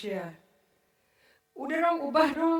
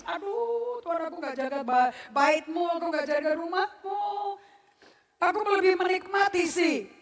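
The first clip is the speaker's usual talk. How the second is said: mock repentant prayer; 3 semitones higher, 5 dB louder, slower than usual.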